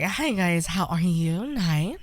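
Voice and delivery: put-on softly lilting girly greeting; casual put-on feminine voice; feminine trolling voice. Shown as a demonstration. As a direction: greet viewers in a light feminine voice. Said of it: "get good like that".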